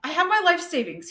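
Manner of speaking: a pathetic little mouse pleading. Acted. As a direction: plead like a cornered miser. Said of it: "he said in a pathetic voice".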